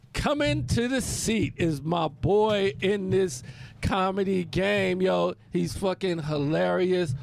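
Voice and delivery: hype host introduction. Acted. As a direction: bring the next comic up like a club host. Introduces the next guest as host.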